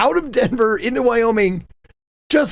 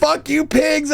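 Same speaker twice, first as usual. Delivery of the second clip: high mock yell at cops; imitating his friend's shout; retold scream; 6 semitones higher, slower than usual. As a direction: yell it across the highway. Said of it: "And he just screaming".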